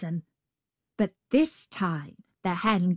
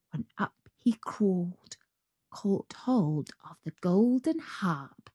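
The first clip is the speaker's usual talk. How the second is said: whispering; 4 dB quieter than usual. A narrator's reading. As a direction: breathe it out sneakily. Jack sneaking quietly.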